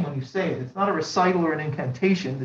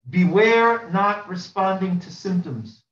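slow warning; 2 semitones higher, slower than usual. Acted. Preacher's key warning.

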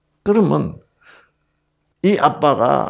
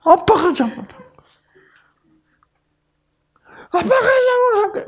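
high, tearful wail, 아빠가 stretched; wailing child; faster than usual. Retold or imitated. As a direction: sob it like a little girl. Daughter crying. (울먹이는 아이 목소리)

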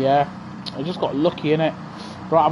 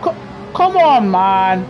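exasperated cry; slower than usual. Real, not acted. Gamer yelling at rival cars, exasperated cry. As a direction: wail it out at the cars that hit him.

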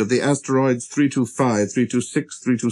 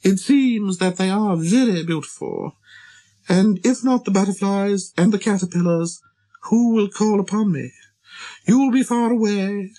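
high-pitched flower voice, putting on bravery; proud flower, unafraid; 8 semitones higher than usual. Acted. Proud flower telling him she fears no animals, high and airy-proud. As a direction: speak up high as a vain little flower.

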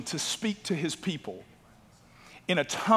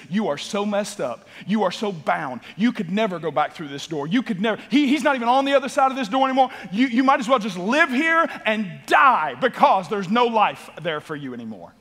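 taunting voice of the enemy, growing louder; mocking accuser; 5 semitones higher, 6 dB louder than usual. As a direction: sneer at the listener as if trapped. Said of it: "it looks at you and says".

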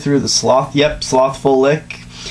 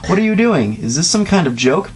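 exclaimed; 6 semitones higher than usual. Acted. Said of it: "she exclaimed".

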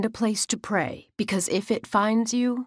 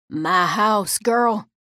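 firm, louder grandmother scold; stern scolding; 4 dB louder, much slower than usual. Acted. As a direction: scold the girl sharply. Nana scolds the child.

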